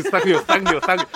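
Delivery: quick mock chant of thank you, one after another; rapid-fire thank yous. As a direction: rattle off thank you like the class did. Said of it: "前面像鸡巴人浪似的就来了". (模仿全班飞快地念thank you)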